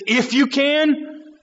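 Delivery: slow, pointed stress on you; incredulous echo. Shown as a demonstration. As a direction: lean on "you" in "If you can". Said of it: "it should shock us when he says".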